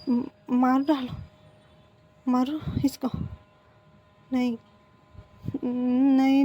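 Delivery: a touch of panic; panicked stammer. Acted. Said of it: "panic करने लगता है".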